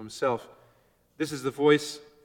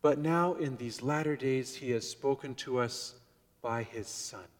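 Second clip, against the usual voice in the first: gentle tone; 4 dB quieter than usual. Retold or imitated. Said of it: "That's a different tone of voice".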